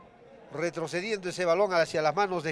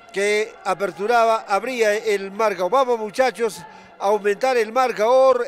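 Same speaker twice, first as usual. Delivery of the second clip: excited rallying commentary; 2 semitones higher, 4 dB louder than usual. Real, not acted. Commentator rallying after goal.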